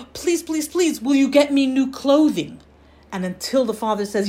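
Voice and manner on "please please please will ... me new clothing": gasp, then high, urgent begging; pleading child. Acted. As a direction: play a child begging through mock tears. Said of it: "he doesn't stop crying".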